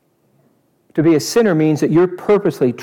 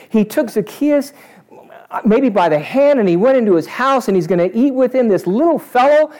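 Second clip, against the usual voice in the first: higher-pitched gushing onlooker; mock admiring crowd; 7 semitones higher than usual. Preacher playing the crowd watching Zacchaeus, mock gushing. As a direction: coo over it with exaggerated wonder. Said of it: "Isn't that what the crowd did?".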